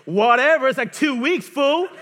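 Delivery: loud, high teasing jab; mock wife. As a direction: toss it off like a mocking wife. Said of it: "She was like".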